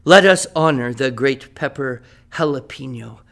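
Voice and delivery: grand, fond recital of an ode; poem recital. Acted. Teacher reading his ode to the jalapeno to the class, in a fond recital. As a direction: read it like a loving tribute poem.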